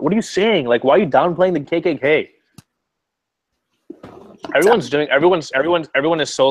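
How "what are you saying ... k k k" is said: rising, outraged disbelief; reacting to the KKK claim, incredulous. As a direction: fire back in shocked disbelief. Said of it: "I was like".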